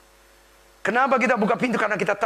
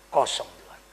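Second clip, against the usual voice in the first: whispered reply; 4 semitones lower than usual. Acted. Peter answers, empty nets.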